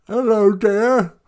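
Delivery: high, slow mock English accent; hammed-up English accent with a laugh. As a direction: drawl it in a silly English accent. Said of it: "spoke with an English accent".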